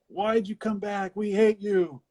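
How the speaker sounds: playful imitation of townspeople; mock angry townsfolk. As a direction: sneer it like a hostile town. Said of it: "everybody's just like".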